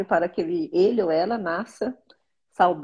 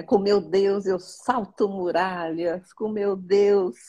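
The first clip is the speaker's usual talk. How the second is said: devout reading; much slower than usual. Acted. Reads psalm verse.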